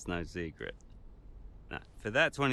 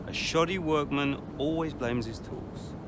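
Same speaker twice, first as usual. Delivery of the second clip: smug taunt; 3 semitones higher, slower than usual. Acted. Taunting teammate with proverb.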